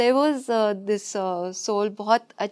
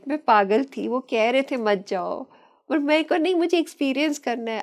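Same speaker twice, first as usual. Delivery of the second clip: laughing at herself; 4 semitones higher, 4 dB louder than usual. Retold or imitated. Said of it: "तो फिर हंसे जाए".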